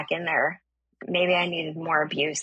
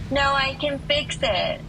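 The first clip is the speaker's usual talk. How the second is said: higher-pitched insistent call; mock holler, pitched up to carry; calling out insistently; 6 semitones higher than usual. Stranger insists to a reluctant driver, calling out.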